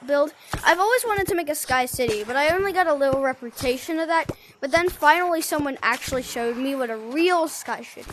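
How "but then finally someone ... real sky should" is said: talking through a mouthful of spit; words garbled by spit in mouth. Real, not acted. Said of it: "Sorry, I had spit in my mouth".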